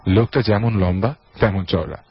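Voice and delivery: dramatic audio-story reading; story narration. A narrator's reading. Host reads a listener's horror story, dramatic narration. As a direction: narrate with swooping phrase openings that fall away.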